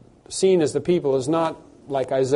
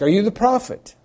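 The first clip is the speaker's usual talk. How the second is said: mock questioning; 8 semitones higher, 4 dB louder than usual. Jews questioning John.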